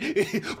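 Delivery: high mimicked giggle; imitated bully's giggle. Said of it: "he was looking at me like".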